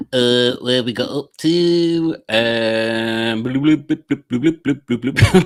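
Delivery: slow, idle burble while searching; bloop noises. Pretend. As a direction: fill the wait with little bloops. Fills time scrolling with bloop noises.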